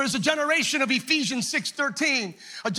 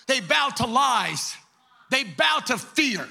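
preaching. Acted. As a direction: preach each line, pounding the word bow. Preaching with rising force.

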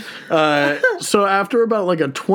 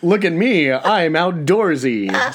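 mock outdoorsy boast; slower than usual. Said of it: "said the city boy".

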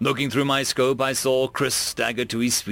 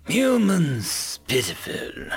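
scornful god king; slower than usual. Acted. God King taunts condemned human.

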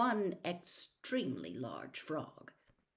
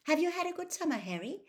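put-on much higher girl's voice; Hermione's voice; 12 semitones higher, faster than usual. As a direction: voice a friend asking, pitched high.

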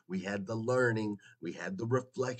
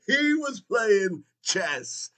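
loud, high, very slow shout; excited shout; 11 semitones higher, 8 dB louder, much slower than usual. Real, not acted. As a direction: drag out the punchline in a triumphant yell. Big reveal, hyped.

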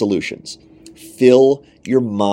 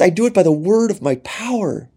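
higher, commanding voice of Jesus; voice of God; 8 semitones higher than usual. Acted. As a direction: proclaim it as the all-powerful Lord. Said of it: "He says".

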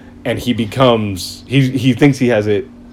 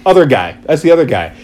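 high, jumpy denial; defensive Batman; 6 semitones higher than usual. Retold or imitated. Batman denying he laughed, jumpy high denial. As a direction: deny it too fast, a hint of panic. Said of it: "he's like".

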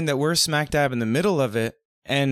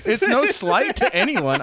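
laughing; 8 semitones higher than usual. Real, not acted. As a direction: laugh it off, much higher. Laughing self-defence after teasing.

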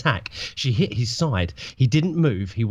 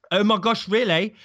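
put-on higher, eager voice of an amazed young cat; excited disbelief; 8 semitones higher, faster than usual. A narrator's reading. Starpour hearing about Scourge, excited and higher. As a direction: gush it out in wonder. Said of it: "asked Starpour".

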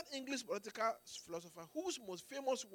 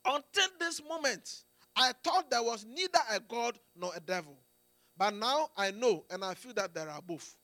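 raised, pained confession; a lightly acted cry of anguish; 3 semitones higher, 8 dB louder than usual. Preacher voices Thomas Cook's dying words, anguished cry. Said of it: "cried out in anguish".

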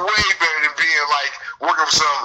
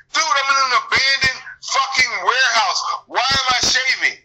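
raised, higher, indignant shout; angry rant; 6 semitones higher than usual. Retold or imitated. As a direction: yell it like you can't believe the demand. Retells arguing with supervisor about shaving.

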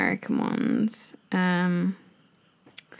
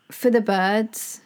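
American phrase; 3 semitones higher, slower than usual. Shown as a demonstration. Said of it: "Do you know that one?".

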